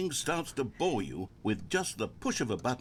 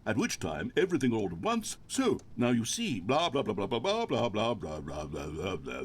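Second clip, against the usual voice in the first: droning monologue; 3 dB louder than usual. Pretend. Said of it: "pretend that I've just begun an interminable monologue".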